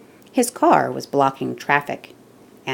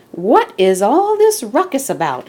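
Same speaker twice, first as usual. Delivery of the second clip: policeman voice; 8 semitones higher, 5 dB louder than usual. Acted. Policeman asks about noise.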